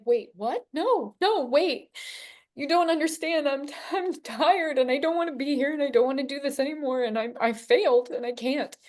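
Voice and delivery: high, stunned protest; startled pleading. Retold or imitated. Pleading back to God's no.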